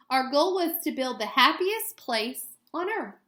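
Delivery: clear, gentle storybook read-aloud; reading to children. Acted. Teacher reading a picture book to students, gentle read-aloud.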